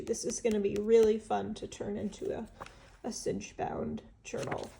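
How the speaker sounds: stuffy nose, congested voice; blocked nose. Real, not acted. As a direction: speak through a stuffed-up nose. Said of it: "I am so stuffed up".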